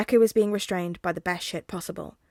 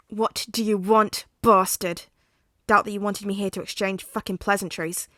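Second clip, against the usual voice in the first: angry; 5 dB louder than usual. Acted. Katsuki confronts villain.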